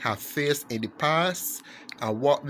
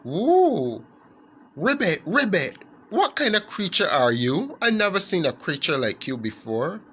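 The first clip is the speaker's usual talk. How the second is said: put-on lightly raised, childlike frog voice; a small kid frog, curious; little frog voice; 4 semitones higher than usual. Little frog asking the snake what he is, lightly childlike. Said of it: "he said in his little voice".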